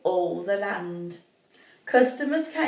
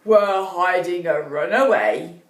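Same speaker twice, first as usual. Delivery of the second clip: secretive dwarf; 3 semitones lower, 3 dB louder than usual. Acted. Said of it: "said the eldest dwarf".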